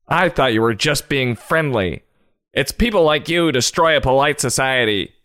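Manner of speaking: hammed-up affronted stranger; mock indignation. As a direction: draw it out, then pitch up offended. Acted indignation at being sold to.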